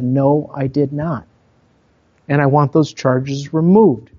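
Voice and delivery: polite but assertive. Retold or imitated. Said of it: "I was being very polite, but again, too, kind of assertive".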